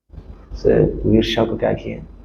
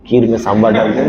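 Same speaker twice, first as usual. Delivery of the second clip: sheepish confession; faster than usual. Acted. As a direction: own up with a small laugh.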